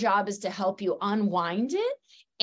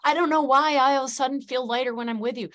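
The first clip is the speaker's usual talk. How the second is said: higher, quick voice of a surprised client; light mock of a bewildered patient, higher and fast; imitating an amazed client; 5 semitones higher, much faster than usual. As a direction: rattle it off higher like someone caught off guard by their own feelings. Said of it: "and you go".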